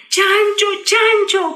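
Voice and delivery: high, bright call of his name; joyful call. Acted. Señorita Cerda greets Don Chancho, happy high call. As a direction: call out gladly to him. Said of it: "gritó ella".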